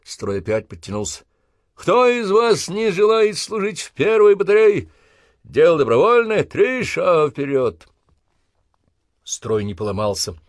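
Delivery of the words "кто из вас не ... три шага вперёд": parade-ground challenge. Acted. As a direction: challenge the line to step out. Sergeant addresses recruits.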